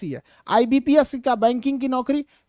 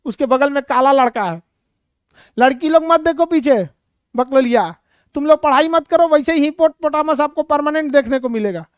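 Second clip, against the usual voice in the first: scolding the class. Real, not acted. Teacher scolds laughing students.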